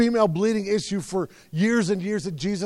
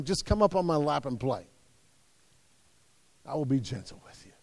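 tender father; 4 semitones lower, 8 dB quieter than usual. Acted. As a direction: lower and much softer, tender. Father voiced to children, tender.

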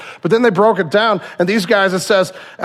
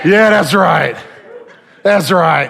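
approving shout; 3 dB louder, much slower than usual. Real, not acted. Cheering the congregation's shouted amen.

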